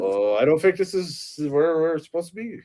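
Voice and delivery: a light Stewie Griffin voice; lightly voiced cartoon baby Stewie; lightly voiced Stewie, lost in the wrong place; Stewie impression. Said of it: "that's pretty good".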